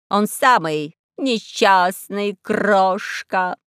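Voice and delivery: raspy cawing crow. Acted.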